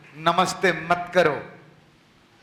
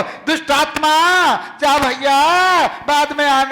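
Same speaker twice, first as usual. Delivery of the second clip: mock polite pleading; 6 semitones higher, 4 dB louder than usual. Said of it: "ऐसे निवेदन नहीं करते".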